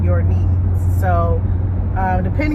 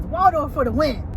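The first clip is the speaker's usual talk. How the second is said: cheering; 8 semitones higher than usual. Real, not acted. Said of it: "let me just say".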